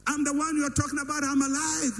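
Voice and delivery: high-pitched showy hailing of the crowd; mock self-announcement. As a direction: announce yourself to folks, hammed-up. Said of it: "show myself and say".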